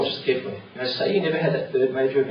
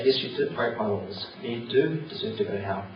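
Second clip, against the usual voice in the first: lovingly; 2 semitones lower, 3 dB quieter than usual. Acted. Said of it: "And Jesus will look at you lovingly".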